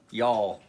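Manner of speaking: "y'all" said as one drawn syllable, jawl, falling; back home dialect. Shown as a demonstration. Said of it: "That's back home talk".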